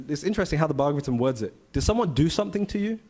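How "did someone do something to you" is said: higher-pitched, gently questioning; concerned father. Retold or imitated. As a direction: voice a father checking on his crying son. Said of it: "and he's crying".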